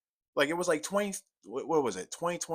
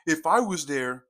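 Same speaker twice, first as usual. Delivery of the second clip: mock quote; 4 semitones higher, 9 dB louder than usual. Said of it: "but genuinely".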